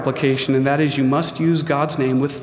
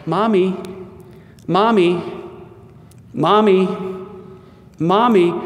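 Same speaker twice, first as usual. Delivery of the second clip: put-on whiny toddler; 4 semitones higher than usual. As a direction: nag like a small child tugging at mom. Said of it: "followed my wife around the house going".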